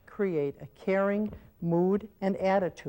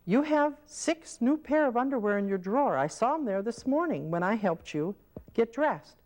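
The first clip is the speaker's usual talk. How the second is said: correcting caregiver; 4 semitones higher than usual. Shown as a demonstration. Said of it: "Now you could say to me".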